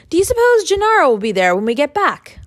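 put-on high, eager-sounding call from a boy. A narrator's reading. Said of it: "calling out".

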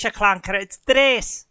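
exasperated correction. Acted. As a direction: spell it out for the clanker in an exasperated Irish voice. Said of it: "Oh, for God's sake".

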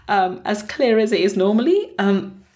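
hoarse, rough sore-throat voice; croaky voice. Real, not acted. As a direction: speak through a croaky throat. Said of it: "apologize for my voice not being".

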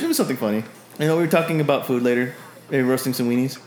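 lightly voiced sly companion; Balefire. Balefire teasing about Olzek behind a cover story, lightly voiced. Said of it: "Balefire chimes in and he goes".

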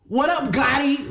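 gruff rapper greeting; impression of a rapper. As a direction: drop into a famous rapper's voice. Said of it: "I think he'd say something like".

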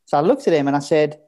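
ordinary delivery

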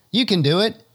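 high, loud cheer; encouraging shout. Acted. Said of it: "I call out to the trekkers".

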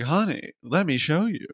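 a light Samantha purr. Retold or imitated. Kim Cattrall pitching the Samantha voice, lightly sultry. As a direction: coax it like a knowing vamp. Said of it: "I'm gonna do the Samantha voice".

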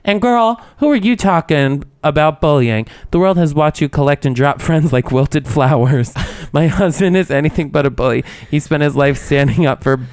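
mock-indignant, hammed-up clapback; dramatic reading. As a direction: read it out sassily for drama. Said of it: "I'm gonna do a dramatic reading".

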